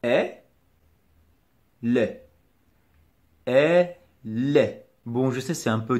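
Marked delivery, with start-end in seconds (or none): 0.0-4.9 "Est", clear pause, then "lait"; two detached beats, "Est" and "lait"; separated syllables. Shown as a demonstration. Teacher separating the sounds for the learner, split demonstration. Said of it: "on les sépare".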